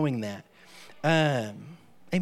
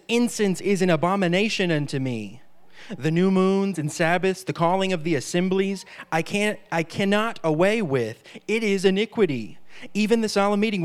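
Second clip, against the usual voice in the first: scripture declaimed; 2 semitones higher than usual. Acted. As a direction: thunder the verses out like a prophet. Preacher reads God's words aloud.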